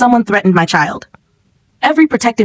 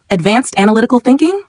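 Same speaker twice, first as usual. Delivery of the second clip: "Advanced analytical thinking" echoed higher, rising at the end; questioning echo; 4 semitones higher than usual. A narrator's reading. Grandfather querying his grandson's claim, questioning echo of "Advanced analytical thinking".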